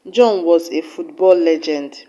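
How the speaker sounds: football given a mild extra push; stress on football. Shown as a demonstration. Teacher correcting the hockey question, stress on football. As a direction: lean a little on football. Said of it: "with emphasis on the word football".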